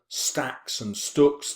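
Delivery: stretched-out stacks and stooks, both st sounds hit hard; alliteration read out slowly. Shown as a demonstration. Teacher showing students the alliteration, drawn out slowly. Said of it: "to make things memorable".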